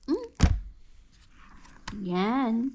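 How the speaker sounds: ordinary talk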